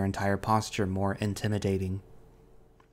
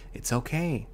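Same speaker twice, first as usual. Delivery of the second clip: gentle reassurance, pitched up; tender and higher, calming; comforting; 4 semitones higher than usual. A narrator's reading. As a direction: soothe someone who is frightened. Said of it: "His voice is oddly comforting".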